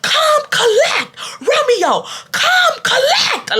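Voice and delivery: high, slow drawn-out yell; high slow call telling Romeo to come collect. Retold or imitated. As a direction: stretch each word across the classroom. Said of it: "So I kept screaming".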